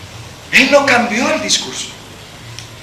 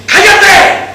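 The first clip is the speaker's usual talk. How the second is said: hushing; 9 semitones higher, 6 dB louder than usual. Retold or imitated. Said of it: "La multitud le dice".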